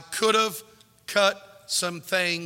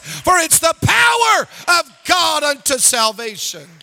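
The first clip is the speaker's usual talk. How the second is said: building from firm to loud, slow shouting; rising pulpit shout; preaching; 6 semitones higher, 7 dB louder than usual. Acted. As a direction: climb to a proud declaration.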